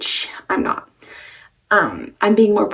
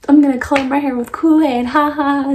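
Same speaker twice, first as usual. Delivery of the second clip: joking voice; 5 semitones higher, 5 dB louder than usual. Retold or imitated. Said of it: "like, jokingly".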